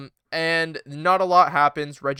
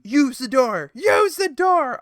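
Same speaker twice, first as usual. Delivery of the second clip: higher, slow, sing-song mockery; mock Bayley; 8 semitones higher, 4 dB louder, slower than usual. Mocking Bayley's whiny plea to the door, hammed-up. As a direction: whine it like a bratty Bayley. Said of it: "Bayley's like".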